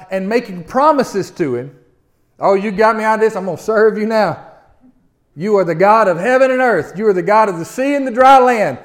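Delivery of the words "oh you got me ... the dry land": louder, fervent thanks to God; grateful vows. Retold or imitated. Pagan sailors thanking God after the storm, fervent and loud. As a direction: gush out your thankful promises. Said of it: "they're making vows to God".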